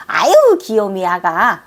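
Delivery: cooing. Real, not acted. Cooing at a tiny fairy child she adores. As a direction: coo over a cute little one.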